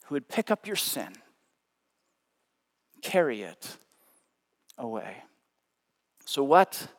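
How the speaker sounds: hushed preaching. Acted.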